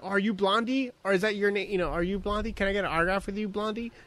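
clueless fan. Retold or imitated. Fan coming up to a singer, lightly mocked eagerness. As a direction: imitate an eager autograph seeker. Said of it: "it's like coming up to Deborah Harry".

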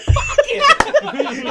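high, loud mock English accent. Friend showing how his inner voice talks, mock English accent. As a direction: belt it out in an exaggerated English accent. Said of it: "it's an English accent".

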